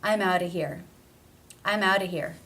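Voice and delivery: OUTTA with a D-like flap and a schwa ending; reduced linked phrase. Shown as a demonstration. Teacher modelling the reduction, flap T and schwa in OUTTA. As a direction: run OUTTA together, no V consonant at its end. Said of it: "reduced to simply being the schwa sound".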